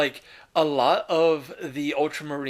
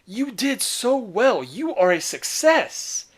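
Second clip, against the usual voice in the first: higher, slowed insistent reassurance; reassuring father; 5 semitones higher than usual. Retold or imitated. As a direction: gently overrule his guilt, lifting every word. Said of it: "But Guilliman's like".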